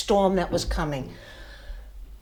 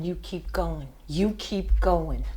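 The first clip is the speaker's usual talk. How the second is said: inner voice; 4 semitones lower, 7 dB quieter than usual. Retold or imitated. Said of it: "The desire kept saying".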